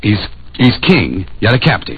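puzzling it out. Retold or imitated. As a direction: turn the words over, half to himself. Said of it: "Say anything".

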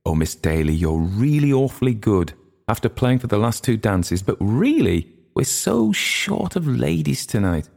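increasingly high, entreating hostess voice; apologetic hostess coaxing a favour; pleading young hostess. A narrator's reading. Mary Jane entreats Miss Daly.

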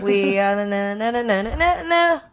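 fading helium squeak; singsong with leftover helium. Real, not acted. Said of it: "it's still a little bit high".

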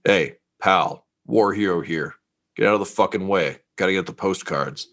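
a hint of a gruff soldier, a bit quick in the middle; mild gruff brute telling a stranger to move; gruff war hero. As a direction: lightly play a rude veteran shoving past. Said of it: "a gruff voice say".

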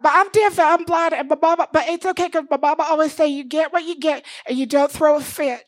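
put-on small Missouri girl, sweetly entitled; Bitsy voice. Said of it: "So she goes".

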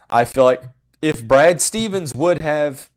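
talking through hiccups; speech broken by hiccups. Real, not acted. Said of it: "I've got the hiccups".

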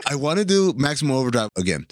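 Paul Bettany style; portentous mock line reading; bad acting. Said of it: "You gotta deliver it like Paul Bettany delivers every line in this".

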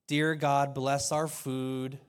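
a hint of a slow, offhand mealtime prayer; casual grace. A quick routine grace before food, mildly mocking. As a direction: rattle off a routine blessing. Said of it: "This wasn't like a".

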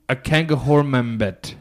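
put-on slow, light African accent. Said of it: "Why are we, like, saying it, like, an African accent?".

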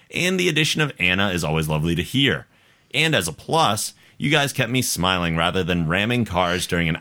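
measured, lilting read-aloud; listener email read-aloud. A narrator's reading. Host reading Kendra's email to listeners, measured read-aloud. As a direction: read the letter out for an audience.

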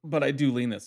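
talking through hiccups; hiccuping between words. Real, not acted. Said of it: "Sorry, I have the hiccups".

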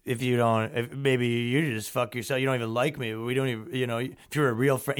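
put-on low, soft drunken mumble; lightly voiced mumbling drunk; drunk muttering. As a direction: slur it like a hammered buddy. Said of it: "muttering to himself".

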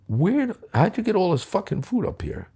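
laughing disbelief. Retold or imitated. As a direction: ask it through a laugh of disbelief. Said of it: "And I started laughing".

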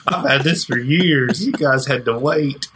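high, twangy Appalachian hillbilly voice; hillbilly accent. Pretend. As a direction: play a backwoods Appalachian yokel. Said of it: "the best hillbilly voice I've ever done".

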